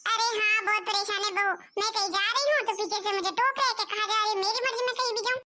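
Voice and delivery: put-on a quarrelsome older wife talking back; bickering mother-in-law. Mother-in-law complaining fast. (ऊँची आवाज़ में झगड़ालू सास)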